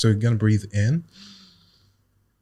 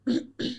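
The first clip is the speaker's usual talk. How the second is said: deep throat clear; 5 dB quieter than usual. Shown as a demonstration. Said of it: "That was better".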